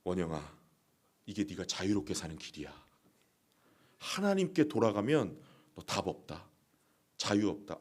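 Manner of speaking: hushed, low whispering devil. Acted. The devil whispers lies to the congregation, hushed and low. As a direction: coax softly like a tempter. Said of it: "마귀는 우리에게 계속 속삭여요".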